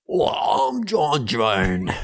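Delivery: slow, drawn-out put-on cop voice. Co-host trying a slow put-on cop voice. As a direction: take your time, like a tough guy. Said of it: "if you're willing to commit to that".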